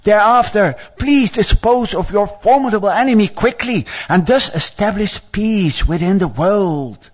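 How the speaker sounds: high, earnest plea, slowing at the close; a little anxious. Acted. Brahma asking the Lord to finish the enemy, anxious high appeal. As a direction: beg with mild urgency, pitched high. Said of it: "he gets a little anxious".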